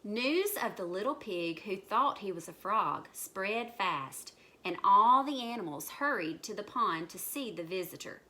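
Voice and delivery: put-on measured, lively reading to children; story narration. A narrator's reading. Storyteller spreads news of the pig, lively narration. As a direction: tell it like a picture-book story.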